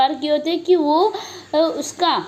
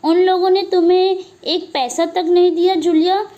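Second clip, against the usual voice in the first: higher, louder outraged question; enraged voice; 4 semitones higher, 3 dB louder than usual. Acted. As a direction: flare up at her in disbelief. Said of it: "एकदम भड़के हुए स्वर में". (भड़की हुई ऊँची आवाज़ में सवाल)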